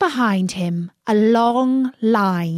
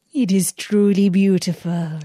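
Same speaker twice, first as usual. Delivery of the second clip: a lightly voiced sly villain posing as a holy woman; disguised magician voice. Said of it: "said the false Fatima".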